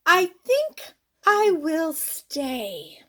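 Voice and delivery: slow, lightly put-on moose voice. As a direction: drag it out like a cozy moose settling in. Moose speaks in the story.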